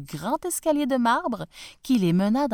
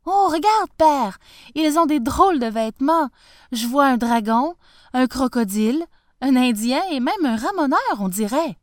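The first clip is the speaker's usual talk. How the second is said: put-on excited child; 4 semitones higher, 6 dB louder than usual. Child marvels at costumed guests.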